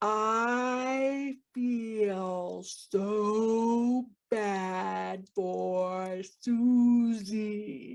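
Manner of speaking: very slow, over-enunciated, every syllable separated. Retelling how a lady repeated herself after being asked to slow down, imitating over-enunciated speech. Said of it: "[over enunciating]".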